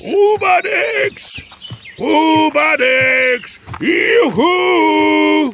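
loud high yoo-hoo; cheerful shouted call. Acted. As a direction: hoot across the woods. Calling into forest.

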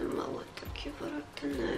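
slow whispered "takie wredne". Real, not acted. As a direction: breathe "małe, takie wredne" slowly, no voice. Repeats in a whisper.

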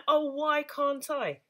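"Oh, why can't I?" slow, high and loud, as a separate question; slow longing question "Oh, why can't I?"; plaintive question. Shown as a demonstration. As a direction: stretch out "Oh, why can't I?" and ask it. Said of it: "with another question mark".

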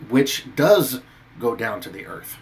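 "does" leaned on, slowly; slow with "does" stressed. Shown as a demonstration. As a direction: press the word "does" in "which does go down". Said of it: "He doesn't say".

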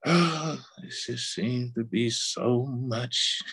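sighing, drawn-out complaint; a touch of weary resignation after a sigh; mock weariness. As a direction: act overwhelmed, dragging the words slowly. Voicing a discouraged believer's complaint.

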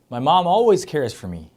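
very slow, stress on always; slow model sentence. Shown as a demonstration. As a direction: spell it out slowly. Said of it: "저희 엄마는 항상 저를". (천천히 또박또박)

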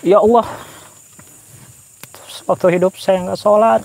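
high, wailing plea to God; pleading dead man. Pretend. Vlogger voicing a corpse begging God, high wail. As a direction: cry out like a soul in the grave. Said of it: "Saya coba gambarkan perasaan mayat".

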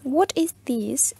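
slow whispered What is this; whispered repeat. Shown as a demonstration. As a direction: breathe the question out slowly. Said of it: "Yo les había presentado la pregunta". (repetición lenta en susurro)

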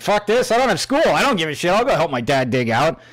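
put-on a kid thrilled about a snow day; excited kid. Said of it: "I'm like".

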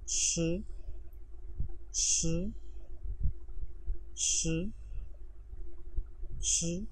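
श said as a light Chinese sh, with the r barely vibrated; sound drill. Shown as a demonstration. Teacher drilling a pinyin sound for students, slow and clear. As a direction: repeat श clearly, one syllable at a time. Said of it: "ये भी sound same इसी तरह".

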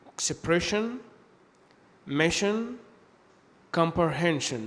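"expression", "mission", "comprehension" ending in shen; sion as shen. Shown as a demonstration. Teacher giving examples after a consonant, "expression", "mission", "comprehension" with shen. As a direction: model each word with sion as an unvoiced sh. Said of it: "ينطقوا شن".

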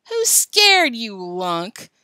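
loud start, dropping on the insult; calling out. A narrator's reading. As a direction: call it back across the yard. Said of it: "called Alan".

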